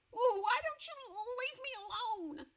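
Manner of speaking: high, loud frightened plea; pleading nervously. Acted. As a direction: beg him to go.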